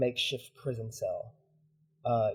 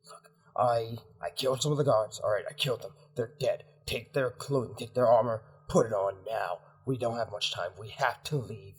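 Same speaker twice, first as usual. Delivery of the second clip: companion pressing a friend to flee, insistent; pressing, agitated in-character urging; urgent rescuer. Acted. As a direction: hurry them out with short, repeated phrases.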